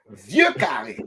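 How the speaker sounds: "Vieux carré" said carefully in French, vyuh kah-ray; correct French pronunciation. Shown as a demonstration. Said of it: "That's what it is".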